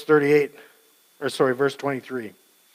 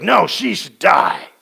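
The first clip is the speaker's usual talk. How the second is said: mild stern verdict; 5 dB louder than usual. Retold or imitated. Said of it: "He's like".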